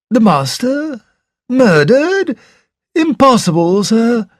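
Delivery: butler's high, startled disbelief; a servant caught off guard; astonished butler. Acted. Butler hears shocking news.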